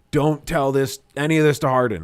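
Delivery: retold yell at a friend, pitched a little up. Telling Lee to keep it from Harden, retold yelling. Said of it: "I was yelling at Lee".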